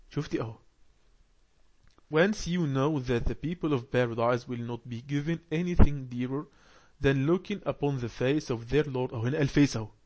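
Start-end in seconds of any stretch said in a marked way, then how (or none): 2.1-9.9 slow, careful reading aloud to a class; slow text reading. Acted. Teacher reads the lesson text aloud slowly. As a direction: read each phrase slowly for learners.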